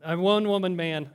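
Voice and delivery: correcting himself with a laugh. Real, not acted. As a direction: laugh through the fix. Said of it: "gender confusion".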